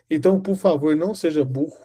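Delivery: ordinary delivery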